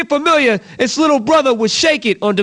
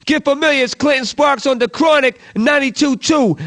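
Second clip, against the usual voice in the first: punchy radio announcer read; radio DJ hype. Acted. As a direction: hype the track like a late-night hip-hop DJ. Radio DJ drop announcing tracks.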